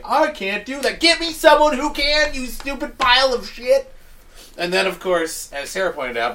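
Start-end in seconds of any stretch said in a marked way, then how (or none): 0.0-3.9 retold shout. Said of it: "the fucking robot".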